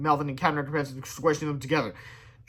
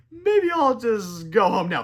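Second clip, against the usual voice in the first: nervous; 5 semitones higher, 4 dB louder, much slower than usual. A narrator's reading. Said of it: "Laughed Melvin nervously".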